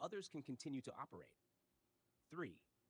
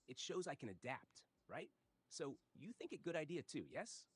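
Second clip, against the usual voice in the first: put-on thick Korean-accented English; lightly done Korean accent; 3 semitones higher than usual. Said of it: "A I with a very thick Korean accent".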